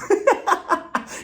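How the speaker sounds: high burst of laughter; real amused laugh. Real, not acted. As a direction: crack up briefly, high. Laughs at own joke.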